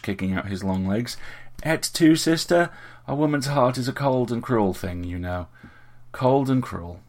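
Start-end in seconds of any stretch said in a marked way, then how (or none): 1.6-7.0 high, hammed-up betrayal; mock-dramatic lament. A narrator's reading. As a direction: play the wounded tragedian for laughs. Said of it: "Richard held this dramatic expression".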